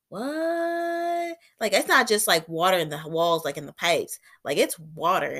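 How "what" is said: high, puzzled "what?"; a startled little question; surprised what. Retold or imitated. Hears water in the basement.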